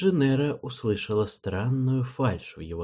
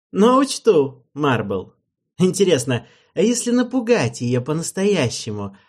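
taunting king; 2 semitones higher, 4 dB louder than usual. Acted. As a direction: toy with her menacingly.

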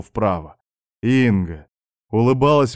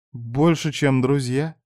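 higher, lightly voiced girl; tentative claim; 4 semitones higher, slower than usual. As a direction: venture it in a lifted voice.

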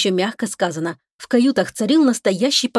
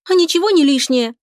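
higher, louder indignant protest; 7 semitones higher, 4 dB louder than usual. A narrator's reading. Lika objects to the captain's correction, higher indignant tone. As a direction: protest with outrage. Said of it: "возмутилась Лика".

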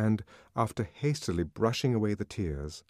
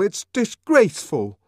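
"disgraceful" loud, higher, falling hard; indignant condemnation; 12 semitones higher, 10 dB louder than usual. A narrator's reading. Savage condemning the nurse, angry falling "disgraceful". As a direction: land "disgraceful" like a verdict. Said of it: "trembling with indignation".

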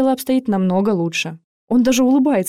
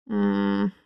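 unconscious moan; 5 dB quieter than usual. A narrator's reading. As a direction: groan as if out cold. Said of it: "мычит он в бессознательном состоянии".

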